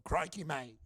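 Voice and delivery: lightly imitated Australian accent. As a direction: toss out a mock Australian greeting. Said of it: "I'd do their accent".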